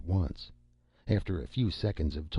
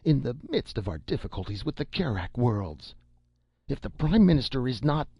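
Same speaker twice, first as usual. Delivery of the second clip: higher and louder, building to a near shout; rising alarm; 7 semitones higher, 4 dB louder than usual. Acted. Defense minister pressing Leoh, building to a shout. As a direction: push harder with each phrase. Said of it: "the defense minister added".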